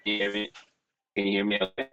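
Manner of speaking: choppy robotic connection; breaking up on a bad line; robotic audio. Real, not acted. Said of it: "No, you're still sounding like a robot".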